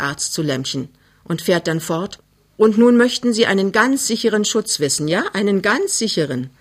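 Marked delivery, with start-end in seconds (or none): 2.6-6.5 a touch of amused doubt; doctor smiles skeptically at the demand for sure protection. Acted. A hint of a skeptical doctor. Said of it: "Er lächelt skeptisch".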